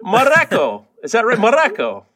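"Mareko" with a short "a" as in "mat"; unsure attempt at "Mareko"; botched pronunciation. Shown as a demonstration. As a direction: say "Mareko" as ma-RACK-oh. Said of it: "No, that's not right".

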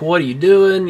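high, loud disbelieving yell; incredulous shout. Retold or imitated. Joe confronting Ted, acted quote.

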